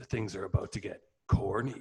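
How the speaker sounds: dramatic movie trailer narrator voice. Retelling a movie trailer for a corn maze film: movie trailer narrator voice. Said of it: "the trailer voice is like".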